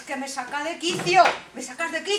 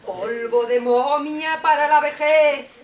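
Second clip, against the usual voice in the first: incantation; 7 dB louder than usual. Acted. Queen brews potion.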